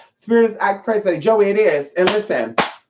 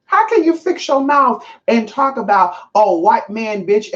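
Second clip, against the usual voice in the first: higher, heated comeback; pitched-up outraged scolding; indignant retort; 6 semitones higher than usual. Retold or imitated. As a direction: tell her off with disbelief. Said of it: "And I'm just like".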